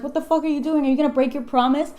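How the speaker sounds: loud, high mock outrage; hammed-up angry outburst; outraged confrontation. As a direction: demand an answer, acting indignant. Monster confronts Frankenstein over promise.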